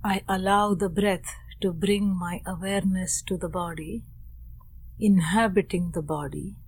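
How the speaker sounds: unhurried meditation guidance, long silences between phrases; guided meditation. Real, not acted. Teacher guides students into posture and breath, calm meditation voice. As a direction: gently settle listeners with spare, measured phrases.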